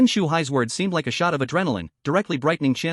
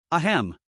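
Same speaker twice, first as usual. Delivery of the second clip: a small polite throat-clear; light cough. Acted. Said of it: "Dean Qian lightly coughed".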